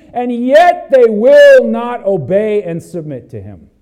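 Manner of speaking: loud, driving pulpit voice; fiery preaching. Acted. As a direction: preach it out to the whole church. Preaching at full force.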